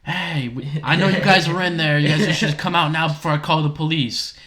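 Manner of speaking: mock yell at trespassers; retold yelling. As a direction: imitate a guard yelling a warning. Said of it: "and he's yelling".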